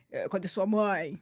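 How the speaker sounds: slow, low question in a hint of dad's voice; father's firm voice. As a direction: lightly voice a firm father asking. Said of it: "Meu pai tinha uma voz, assim, firme".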